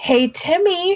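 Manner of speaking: sweet, high, nice, kind, friendly voice. A character alerts someone to their presence so he doesn't freak out; nicest voice. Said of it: "in my nicest voice".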